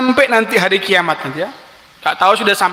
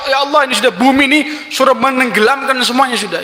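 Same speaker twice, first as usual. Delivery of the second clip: angry prayer; 4 semitones higher, faster than usual. Acted. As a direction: demand it in a rage. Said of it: "Nabi Musa ngamuk lagi".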